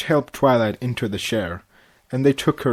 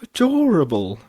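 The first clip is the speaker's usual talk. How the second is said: cooing; 5 semitones higher, 4 dB louder than usual. A narrator's reading. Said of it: "Rarity cooed".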